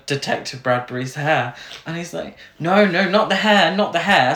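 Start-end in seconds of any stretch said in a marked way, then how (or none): 2.6-4.3 mildly panicked pleading, raised pitch and volume; hammed-up protest as the wig gets grabbed; mock panic. Acts out detective losing his wig.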